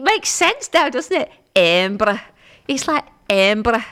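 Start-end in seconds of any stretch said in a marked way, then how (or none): 1.5-2.2 attempted Scottish accent. Shown as a demonstration. Presenter shows listeners how locals say Embra, in an attempted Scottish accent. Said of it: "in a Scottish accent". 3.3-3.8 attempted Scottish accent. Shown as a demonstration. Presenter shows listeners how locals say Embra, in an attempted Scottish accent. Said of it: "in a Scottish accent".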